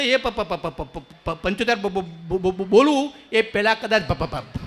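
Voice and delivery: stuck on પ- and બ-; mock stammer. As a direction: stammer endlessly. Shopkeeper stammers explanation.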